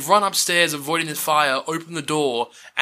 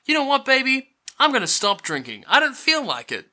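mocking mum; 11 semitones higher than usual. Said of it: "The line is like".

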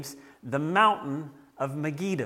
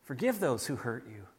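quoting Jesus gently; 3 semitones lower, 5 dB quieter than usual. Retold or imitated. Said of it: "who says".

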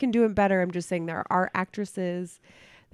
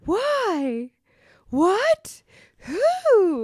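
much higher, louder helpless whine on each word; annoying whiny inflection; 5 dB louder, much slower than usual. Shown as a demonstration. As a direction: whine "Why? What? Who?" high like a helpless little being. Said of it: "Say it in the, with the inflection that's annoying".

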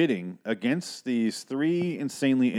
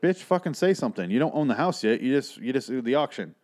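exasperated scolding; 4 semitones higher than usual. Retold or imitated. Exasperated at wife's passivity.

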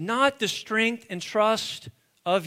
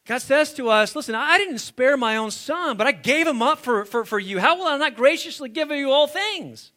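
higher, emphatic sermon voice; impassioned preaching; 4 semitones higher, 5 dB louder than usual. Real, not acted. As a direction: press God's promise on the congregation. Preaching with force.

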